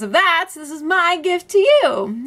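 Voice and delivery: put-on high, sugary baby doll voice. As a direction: coo it like a little doll. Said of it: "drops the baby doll voice".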